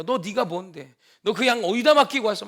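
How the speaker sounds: loud mock-angry big brother; retold angry scolding. Eliab picking a fight with David over the sheep, loud mock anger. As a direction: scold him like an annoyed older brother. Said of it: "막 화를 냅니다".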